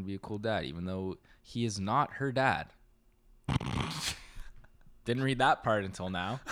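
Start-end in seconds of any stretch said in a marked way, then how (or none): 3.5-6.4 laughing. Real, not acted. Realizes article mistake, cracks up.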